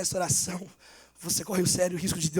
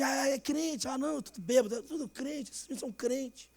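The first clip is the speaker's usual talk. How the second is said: softer, trailing mock mutter of drunk teens; mock drunk mumble; 3 semitones higher, 6 dB quieter than usual. Satanist boys muttering about the Christians, soft mock mumble. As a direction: toss it off under your breath like drunk kids. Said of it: "Aí os meninos ficaram assim".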